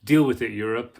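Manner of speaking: mock self-assured retort; imitated proud America. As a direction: play a nation talking back, mildly. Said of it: "and it's like".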